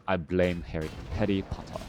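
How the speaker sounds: attempted British accent on Harry Potter. Shown as a demonstration. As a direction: say it with an amateur British lilt. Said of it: "Whenever you try to do an accent".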